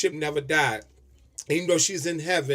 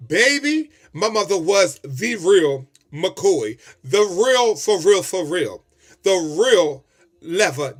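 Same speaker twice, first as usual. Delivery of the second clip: emphatic; 5 dB louder, slower than usual. Real, not acted. Loud praise of mother's realness.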